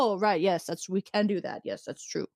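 mock embarrassed agreement trailing to a breathy whisper; sheepish crew. The crew realising their mistake, sheepish fading whisper.

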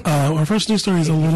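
congested, sinus-blocked voice; stuffy nose. Real, not acted. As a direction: talk through a stuffy nose. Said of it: "I apologize for my voice".

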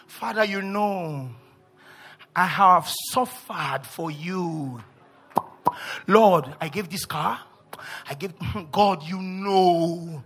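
slow, drawn-out plea to God; mock pleading prayer. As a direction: lightly imitate a long-suffering believer praying. Mock prayer of a suffering believer.

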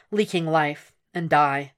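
plain reading voice

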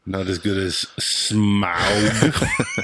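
slow, laughing half-shout on Smaug; laughing tease. Real, not acted. Co-host teasing about the Hobbit sequel, laughing. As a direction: stretch it out while cracking up.

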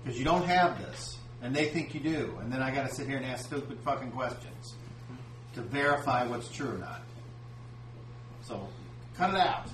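angry. Real, not acted. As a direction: tell them off, building to a snap. Game master scolding players.

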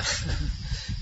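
brief, soft breathy laugh; short chuckle. Real, not acted. Speaker amused at own teaching, short quiet chuckle. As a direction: chuckle quietly mid-sentence.

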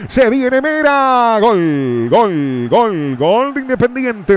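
relato de penal acelerado; breakneck goal commentary. Real, not acted. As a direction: narra el gol a toda velocidad. Relato del gol rival. (relato de gol a toda velocidad)

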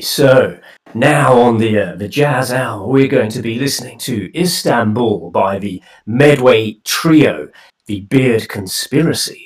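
low, hushed spooky storyteller; scary story voice. Pretend. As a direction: spin it like a ghost story. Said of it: "I meant radio voice, not scary story voice".

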